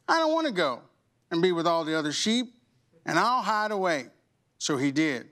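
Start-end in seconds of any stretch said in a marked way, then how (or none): 0.1-4.1 a hint of a stubborn sheep; lightly voiced sheep. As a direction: raise the pitch for the sheep.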